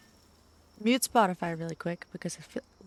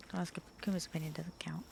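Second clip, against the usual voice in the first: whispered aside; whispering; 3 semitones lower, 7 dB quieter than usual. Real, not acted. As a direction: whisper it behind a hand. Joking aside about Kuma.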